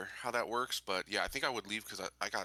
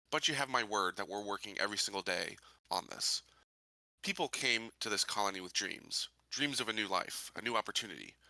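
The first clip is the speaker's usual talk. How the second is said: measured public address, deliberate pauses between phrases; rally the colonists like a candidate; in-character speech. Acted. Sheriff candidate addressing fellow colonists on a broadcast, formal speech.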